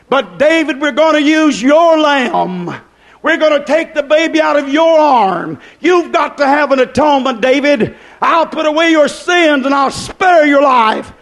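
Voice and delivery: God's judgment shouted from the pulpit; stern shouted verdict. Acted. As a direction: thunder it down as God's sentence. Preacher voicing God's stern verdict.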